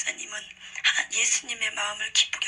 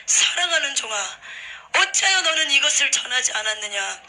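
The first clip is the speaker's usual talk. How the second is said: a touch of stern loud rebuke; mild reproachful divine voice; rebuking Jesus; 4 semitones higher, 4 dB louder than usual. Retold or imitated. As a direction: scold a servant gently but firmly. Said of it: "예수님이 책망하시더라고요".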